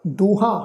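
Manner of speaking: ਦੂਹਾਂ with a nasal final "aan"; nasalised ending. Shown as a demonstration. Teacher shows congregation the bindi, nasal ending on ਦੂਹਾਂ. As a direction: let the last vowel of ਦੂਹਾਂ go through the nose. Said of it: "ਬਿੰਦੀ ਲਗਾ ਕੇ ਉਚਾਰਨ ਕਰਾਂਗੇ".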